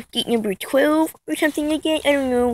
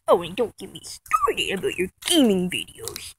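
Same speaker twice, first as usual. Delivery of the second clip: hushed, low grumble; mock whispered rant; 7 semitones lower, 6 dB quieter than usual. Vlogger starting on a rival's gaming videos, whispering. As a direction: drop to a soft, half-voiced whisper.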